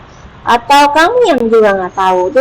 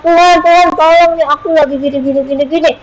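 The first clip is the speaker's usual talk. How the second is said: mock whiny prayer; 3 semitones higher than usual. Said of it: "Kamu cuma bilang".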